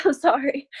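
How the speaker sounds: laughing it off, a little choked up; a laughing apology through tears; embarrassed laugh through tears. Real, not acted. New recruit apologising to her team, laughing through tears. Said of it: "make me emotional".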